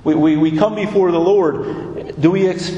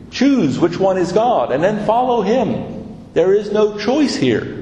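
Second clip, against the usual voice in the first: insistent challenge in a raised pitch; confronting; 4 semitones higher than usual. Retold or imitated. Elijah confronts the unbelief of the people, insistent and confronting. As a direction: press them firmly to choose. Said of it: "he confronts the unbelief of the people".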